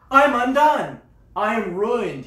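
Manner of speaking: high, loud cry of despair; Isaiah's anguished cry. Acted. Prophet crying out before God in anguished despair. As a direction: wail it out like a man undone. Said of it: "He's like".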